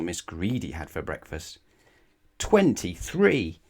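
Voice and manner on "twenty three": slow, much louder and higher exclamation; drawn-out delighted shout; excited reveal. A narrator's reading. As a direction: make it a big astonished announcement. Reveal of toast count.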